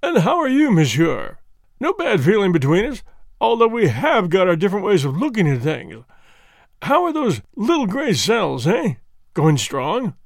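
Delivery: hearty, teasing inspector voice; good-natured mockery; affectionate contempt. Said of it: "greeted Poirot with a sort of affectionate contempt".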